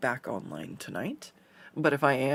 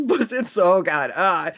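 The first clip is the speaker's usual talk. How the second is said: squeamish yelp; 4 semitones higher, 6 dB louder than usual. Retold or imitated. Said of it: "And I'm like".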